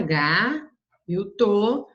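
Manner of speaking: slow, drawn-out syllables. Shown as a demonstration. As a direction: sound out each syllable separately.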